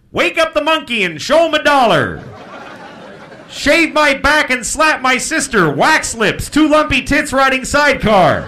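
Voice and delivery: high, booming kitchen yell; yelled diner code. Shown as a demonstration. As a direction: holler the order through to the kitchen. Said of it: "they yell it to the kitchen".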